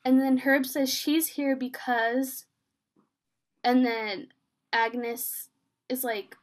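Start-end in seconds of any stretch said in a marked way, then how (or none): 0.9-2.4 "because" drawn out slowly and left hanging; slow down and leave "because" unfinished; trailing unfinished. Retold or imitated. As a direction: stretch "She's here because", then stop short. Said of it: "we're all dot, dot, dot".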